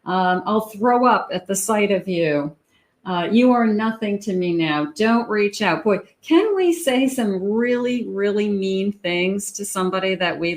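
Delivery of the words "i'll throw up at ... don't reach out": mock breakup insult. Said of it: "some of you have said this".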